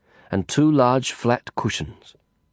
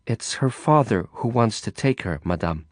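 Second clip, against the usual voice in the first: gentler. Acted. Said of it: "a little more gently".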